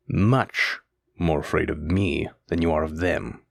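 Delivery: a slow threat from the demon lord to his servant; menacing demon voice. Acted.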